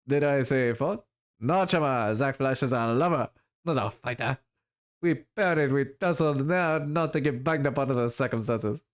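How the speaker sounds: a hint of a swaggering hawker with a muddled accent; lightly voiced elf dealer. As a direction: lightly play a boastful magic seller.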